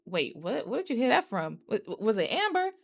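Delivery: imitating someone caught off guard; puzzled, halting mock questioning; confused. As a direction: stammer it out in confusion. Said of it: "like, confused".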